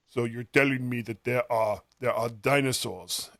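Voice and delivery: put-on a weak stab at a Soviet general's Russian accent; interrogating general, heavy Russian accent, lightly done. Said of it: "that's my Russian accent".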